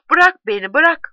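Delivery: narrated shout. A narrator's reading. Tipo struggling to be let go, shouting in narration. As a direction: cry out to be let go, partly acted. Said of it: "diye bağırıyor Tipo".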